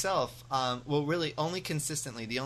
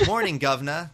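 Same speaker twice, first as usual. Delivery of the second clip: mock Cockney greeting; 5 dB louder than usual. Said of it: "like, say".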